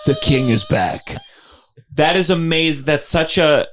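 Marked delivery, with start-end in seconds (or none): 0.1-1.2 high, drawn-out crying hail; mock cheering. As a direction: hail the returning king. Staff cheering a plate-thrower.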